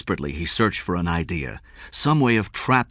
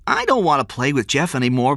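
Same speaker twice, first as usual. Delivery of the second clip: put-on high, complaining child; boy grumbling about a playmate; young boy; 9 semitones higher, 5 dB louder than usual. A narrator's reading. Small boy's voice in story.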